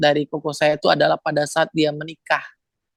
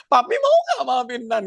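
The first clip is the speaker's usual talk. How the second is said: high-pitched mock yell, volume held back; imitated louder demand; 8 semitones higher than usual. Brother asking father a third time, mock-yelled demand. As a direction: push the pitch up as if yelling. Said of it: "Dia makin kenceng ngomongnya".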